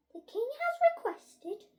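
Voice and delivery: high, loud proclamation to the school; head teacher announcing. A narrator's reading. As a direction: announce it grandly, pitched well up.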